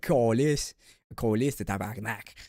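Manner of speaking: mock French Canadian swearing, loud at first; French Canadian cursing. Showing how he cursed with teammates, French Canadian accent. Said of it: "curse in specifically French Canadian".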